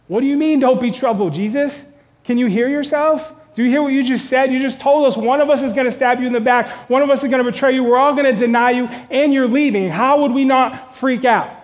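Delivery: can you even hear yourself, exasperated; alarmed disbelief. Retold or imitated. Disciples protesting to Jesus.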